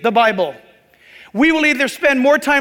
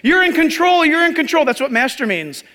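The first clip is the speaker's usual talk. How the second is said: mock disciples; 5 semitones higher than usual. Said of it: "Basically, they're saying".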